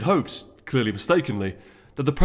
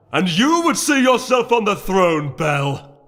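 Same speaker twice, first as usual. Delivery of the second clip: high, loud, slow counterattack; angry shouted retort; 9 semitones higher, 7 dB louder, slower than usual. A narrator's reading. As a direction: fire it straight back at her. Heated quarrel in council.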